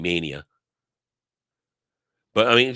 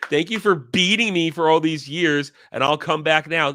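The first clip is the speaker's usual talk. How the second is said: mocking a grateful fan; 3 semitones higher than usual. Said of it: "if you come back saying".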